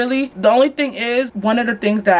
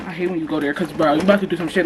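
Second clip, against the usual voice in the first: imitating boyfriend; 4 semitones lower, faster than usual. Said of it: "He just would be like".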